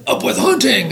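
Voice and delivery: lightly acted high shout; mild shouted slogan. A narrator's reading. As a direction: chant it like a storybook mob. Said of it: "they shouted".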